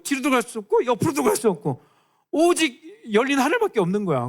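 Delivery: fervent preaching climax; preaching build. Acted. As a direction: build the tension for the congregation. Preaching crescendo.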